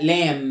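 لام ending on a held m, no b; لام with the final b left unsaid; silent b in لام. Shown as a demonstration. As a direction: say لام and let the m hum, b dropped. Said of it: "ما بنطقش البي".

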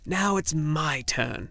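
a grumbling little man's demand; slow insistent gnome. Acted. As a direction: drag it out, petulant. Little man insists on his turn.

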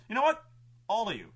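high, loud acted challenge; worked-up villain shouting; villain's outburst. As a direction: call them all out, loud and high. Villain rants at the heroes.

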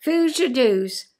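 slow Aberdeen Doric "Foos your doos", said twice; Doric phrase. Shown as a demonstration. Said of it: "I like that one".

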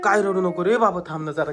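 put-on gently calm a crying child; comforting, settling down after the scare; soothing. Father consoles crying child.

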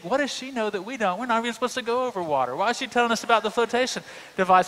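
fast, rising nervous rush; mock panic. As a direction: rattle it off in a half-joking panic. Panicking inner thought on plane.

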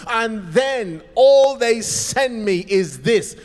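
a wronged worker venting loudly; angry rant. Acted. Angry passenger's rant on platform.

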